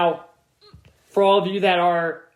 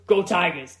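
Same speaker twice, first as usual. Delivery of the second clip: lightly put-on Louisiana accent; 2 semitones lower than usual. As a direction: sign off like a Louisiana coach, accent lightly imitated. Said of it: "in that, uh, Louisiana accent".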